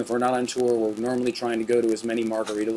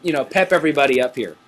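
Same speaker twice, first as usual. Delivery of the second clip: excited; 4 dB louder than usual. Real, not acted. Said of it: "We're a little excited here".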